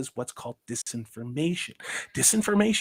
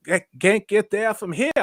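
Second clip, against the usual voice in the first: put-on a light Maine accent, a bit higher; 6 semitones higher, 5 dB louder than usual. Describing New England accents to a co-host, a quick Maine accent. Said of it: "you got the Maine accent".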